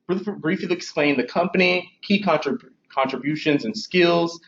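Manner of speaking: words slurred round tight braces; talking with braces. Real, not acted. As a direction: speak stiffly through sore braces. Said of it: "I'm talking so crazy, I have braces in my mouth".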